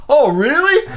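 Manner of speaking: high, interested mock surprise; hammed-up eager neighbor; old neighbor. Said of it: "He goes".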